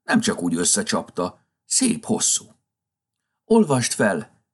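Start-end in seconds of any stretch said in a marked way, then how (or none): 3.4-4.4 pleading. A narrator's reading. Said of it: "kérlelte Kampec".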